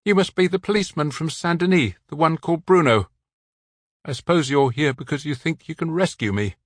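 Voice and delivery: remembering the nuns' rules; lightly voiced man with local French accent, wistful. A narrator's reading.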